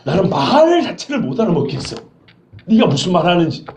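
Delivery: sly, mock-puzzled denial; feigned ignorance. Shown as a demonstration. Peter pretends not to understand the servant girl, sly. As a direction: act like you have no clue. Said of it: "능청스럽게".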